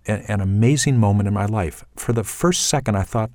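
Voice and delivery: usual speaking voice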